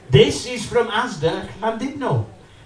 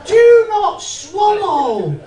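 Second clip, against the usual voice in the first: laughing; 11 semitones higher, 7 dB louder, much slower than usual. Real, not acted. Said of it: "Look at the size of that".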